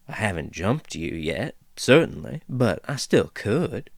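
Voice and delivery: lightly voiced folksy dwarf, amused; easygoing dwarf teasing the intruders; chatty dwarf woman. Dwarf figure speaks.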